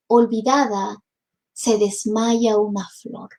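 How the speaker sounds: gentle, wistful verse reading; poem recitation. Acted. Teacher reciting Rubén Darío to students, wistful. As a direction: let the sad princess lines drift and fade.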